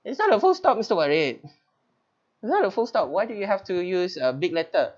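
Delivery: high, insistent student voice; protesting student. Retold or imitated. Teacher imitating pupils insisting it is not a full stop. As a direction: whine the objection like a pupil. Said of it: "they say that".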